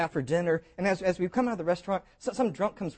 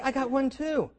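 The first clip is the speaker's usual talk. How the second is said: laughing; 9 semitones higher than usual. Real, not acted. Repeats joke laughing.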